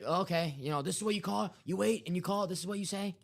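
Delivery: high, exasperated mock host voice; squeaky disbelieving impression, voice up high; imitating a flustered host. Mocking a radio host snapping at a caller, high and incredulous. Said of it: "he's like".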